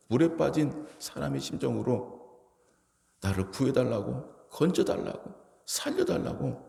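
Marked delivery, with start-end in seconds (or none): 3.2-6.6 desperate cry. Pretend. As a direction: cry out like someone drowning. Drowning man crying for rescue.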